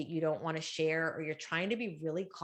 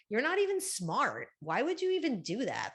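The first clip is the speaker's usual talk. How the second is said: self-judgment; 4 semitones higher than usual. Acted. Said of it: "the self-judgment comes".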